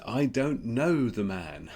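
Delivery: retold swearing. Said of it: "he swears at them and says".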